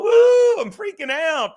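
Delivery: high, loud mock panic in a whiny squeal; mocking nervous passenger. Mocking his passenger's panic on the highway, hammed-up squeal. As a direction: ham up her freak-out in the car. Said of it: "She gets all".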